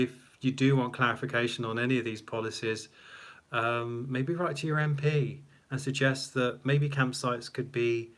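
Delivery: ordinary talk, nothing marked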